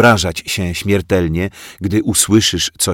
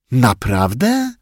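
drawn-out sneer; 5 semitones higher, slower than usual. A narrator's reading. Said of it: "wycedził pajacyk".

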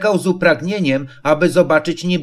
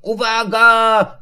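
high, long drawn-out warning; stretched high cry of "look out"; warning call; 6 semitones higher, slower than usual. A narrator's reading. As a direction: call a warning down to those below. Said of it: "zawołał Krzyś do stojących pod drzewem".

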